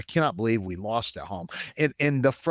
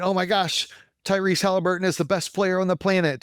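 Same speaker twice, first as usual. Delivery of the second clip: higher and louder, gushing fan; excited gushing; 10 semitones higher, 4 dB louder than usual. Retold or imitated. Pacers fan gushing about Tyrese Halliburton, excited. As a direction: rave about your star player. Retold praise of player.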